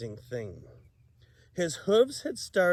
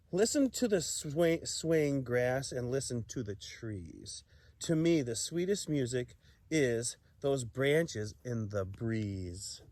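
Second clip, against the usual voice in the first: gentle; 3 semitones lower, 4 dB quieter than usual. Acted. Cricket's gentle soothing speech.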